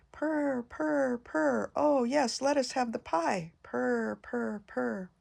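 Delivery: purring kittens. Acted. Kittens purring to their mother for pie, lightly voiced. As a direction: purr like a pleased little cat.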